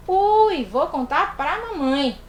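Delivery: mock childish tattle, loud at the start; tattling kid. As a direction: play a kid threatening to tell mum. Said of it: "Aí você olha pra ele e faz".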